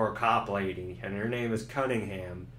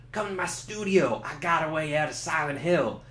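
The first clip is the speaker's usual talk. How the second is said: lightly voiced radio DJ; 4 semitones higher than usual. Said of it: "he's like".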